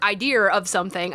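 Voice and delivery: "idea" said with an R added at the end; British linking R after "idea"; intrusive R. Shown as a demonstration. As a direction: link "idea" to "of" with an R. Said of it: "they would add an R to the end".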